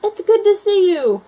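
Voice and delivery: high loud greeting; joyful shout. A narrator's reading. Gator greets dinosaur balloon, loud high joy. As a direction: shout the welcome with delight. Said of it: "she shouted".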